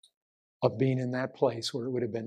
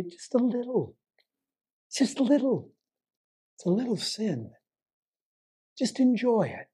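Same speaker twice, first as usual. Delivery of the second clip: higher, coaxing devil's whisper-sell, lightly voiced; tempting devil; 5 semitones higher than usual. Preacher voicing the devil baiting a sinner, coaxing. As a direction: lure them in sweetly, a hint of a sly tempter. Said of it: "He baits you".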